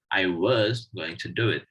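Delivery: full strong form on "was"; stress on was. Shown as a demonstration. Teacher giving an example of a strong form, stressing "was". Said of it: "pronounced with full stress".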